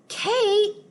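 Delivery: high, loud call. Acted. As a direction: yell her friend's name. Lydia calling out.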